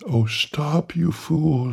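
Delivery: high mock scream at her husband; wife screaming at her husband, high. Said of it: "she screamed".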